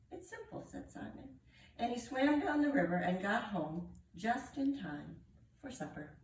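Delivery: animated picture-book reading with character voices; story narration. Acted. Reader telling children of Simon and the tiger, animated story narration. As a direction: read aloud with swooping, expressive pitch.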